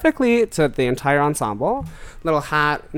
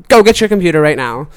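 louder, urgent push; excited urging; 3 semitones higher, 9 dB louder than usual. Retold or imitated. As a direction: call out eagerly to a friend. Drunk, urging friend to fetch computer.

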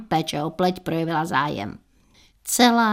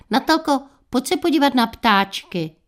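calling out; 6 semitones higher than usual. Retold or imitated. Mother calls daughter to window.

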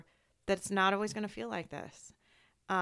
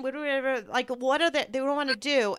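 very fast, higher and louder, tripping over the words; panicky coworkers; 5 semitones higher, 6 dB louder, faster than usual. Retold or imitated. Mocking the first coworkers' panic, rushed and high. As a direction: gabble like a flustered colleague. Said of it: "like, panicky".

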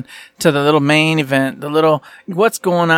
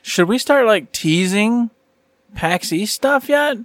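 teasing quote; 5 semitones higher, slower than usual. Retold or imitated. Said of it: "It started with him saying".

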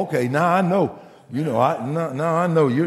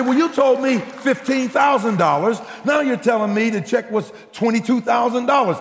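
raised, louder amazed disbelief; excited retelling; 6 semitones higher, 3 dB louder than usual. Retold or imitated. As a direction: lean in, voice up, amazed. Pastor retelling amazed reply.

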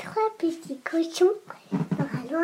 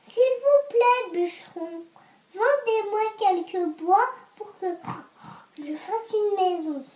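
little pig voice; 2 semitones higher than usual. Acted. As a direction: beg politely like a piglet. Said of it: "J'aime bien quand tu fais le cochon".

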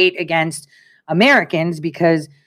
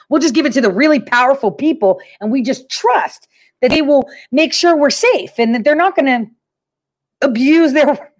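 higher, barely straight-faced mimicry; mock naive trust; 5 semitones higher than usual. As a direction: feign trusting innocence, close to cracking up. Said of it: "can't say it with a straight face".

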